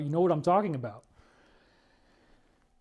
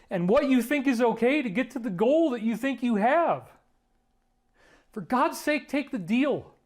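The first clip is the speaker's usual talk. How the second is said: impassioned plea; 3 semitones higher than usual. Real, not acted. Pleading directly with Obama.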